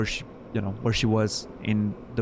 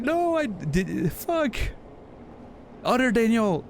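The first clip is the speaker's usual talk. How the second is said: much higher, slow, tripping over the words; flustered stumbling; 9 semitones higher, slower than usual. Retold or imitated. Friend imitated scrambling to apologise, flustered and halting. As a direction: fumble it like you just realised the mix-up. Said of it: "stumbled on her words".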